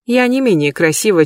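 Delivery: plain reading voice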